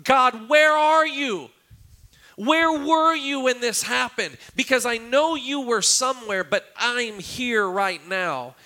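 high, loud, slow cry of anguish; a broken believer screaming at heaven; screaming to God. Retold or imitated. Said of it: "scream out to God".

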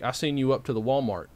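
light upstate New York hick accent. Shown as a demonstration. Showing how people speak back home, light hick accent. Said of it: "it's a hick accent".

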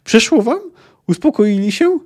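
high, loud scolding questions; yelled questions. A narrator's reading. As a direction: demand an answer at a shout. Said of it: "wrzasnął jeszcze głośniej". (głośne, karcące pytania)

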